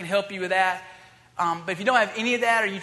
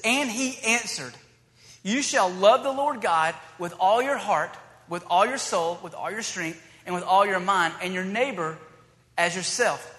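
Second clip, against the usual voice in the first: scripture reading; 2 semitones lower than usual. Acted. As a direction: read it out like the Bible text. Pastor reads scripture aloud.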